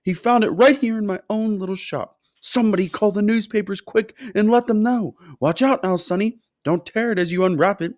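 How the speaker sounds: high, loud thrilled shopkeeper; excited yell. A narrator's reading. Shopkeeper yelling proudly to the crowd in his shop, high and loud. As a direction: yell it out with giddy pride. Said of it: "he yelled".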